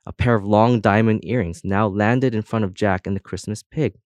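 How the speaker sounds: ordinary delivery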